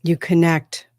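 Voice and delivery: measured, solemn spokesperson from another world; channeled extraterrestrial. Acted. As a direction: speak as a trance channel, in deliberate phrases with long pauses. Speaks as a channeled extraterrestrial being.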